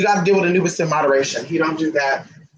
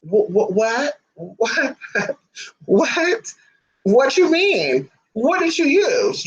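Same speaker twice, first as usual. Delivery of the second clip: mock stern interrogation; 5 semitones higher, slower than usual. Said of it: "then she'll be like".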